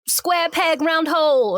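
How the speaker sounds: light caricature of a man breaking up; ex-boyfriend. Acted. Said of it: "he's like".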